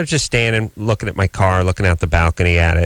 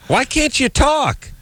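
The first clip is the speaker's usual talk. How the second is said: slow, much higher, slurred half-words; mock sleep-talk; slower than usual. A lightly slurred dream voice for Drew. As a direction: act out mumbling in a dream. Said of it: "it just came out like".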